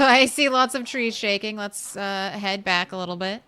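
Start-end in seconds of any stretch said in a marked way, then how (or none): 0.0-1.5 laughing. Real, not acted. Laughs while spotting zombies.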